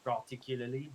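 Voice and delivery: particularly with American R sounds. Shown as a demonstration. Showing off a new word to a friend, American pronunciation. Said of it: "I like saying some of these American words".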